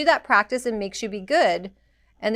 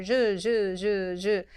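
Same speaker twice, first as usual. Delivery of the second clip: quicker buzzing zh strokes; faster zh sounds; much slower than usual. Shown as a demonstration. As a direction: speed the rhythm up. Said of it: "you can go faster".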